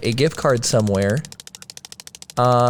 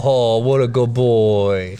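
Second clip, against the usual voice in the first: put-on baby talk to dog; 4 semitones lower, much slower than usual. Petting a pretend dog.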